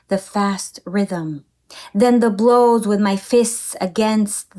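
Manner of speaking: measured, intense poem reading; poetry reading. Acted. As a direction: read it like a performed poem. Reads the English translation.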